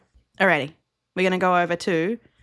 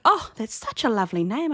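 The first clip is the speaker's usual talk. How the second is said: higher-pitched imitation of an admirer; gushing compliment; 5 semitones higher than usual. Admirer complimenting someone's name, mock gushing. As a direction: gush lightly, higher than usual.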